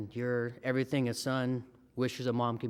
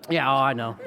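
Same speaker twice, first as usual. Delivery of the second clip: laughing; 7 dB louder than usual. Real, not acted. Reacting to crowd about wife.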